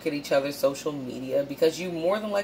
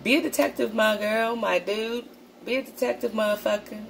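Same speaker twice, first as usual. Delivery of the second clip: rallying the viewers, higher and punchy; pumped-up urging; 5 semitones higher than usual. Real, not acted. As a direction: hype them up to be a detective.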